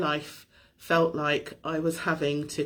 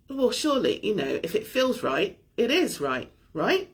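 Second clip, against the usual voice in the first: questioning challenge; 2 semitones higher than usual. Retold or imitated. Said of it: "And the question was".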